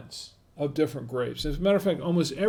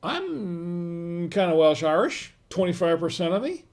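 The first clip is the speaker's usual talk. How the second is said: casual mock greeting; 2 semitones higher than usual. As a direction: lightly play a chummy guy among Welsh Irish friends. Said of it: "I will say".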